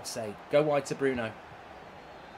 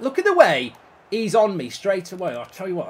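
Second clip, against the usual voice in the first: ordinary talk, nothing marked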